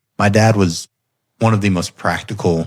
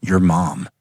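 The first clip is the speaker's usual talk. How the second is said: imitating a stone-cold serious child; deadpan. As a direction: retell it dead serious, no give. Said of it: "stone cold serious".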